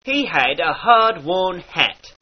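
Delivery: He, had, hat with full H, slowly; H kept. Shown as a demonstration. Teacher repeats the kept H sentence. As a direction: keep every H, slowly.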